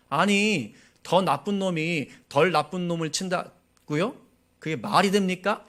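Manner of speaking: indignant protest. Retold or imitated. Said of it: "이렇게 따져 묻는 것입니다".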